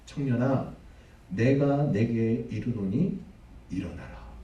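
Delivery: a hint of solemn command, slow in the middle; commanding Jesus. Jesus commands the dead youth. (엄숙하게 명령하듯)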